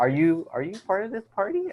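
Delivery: high, put-on French accent for the patron; imitated French-accented question. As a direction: ask it like a French restaurant guest. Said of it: "it was a French accent".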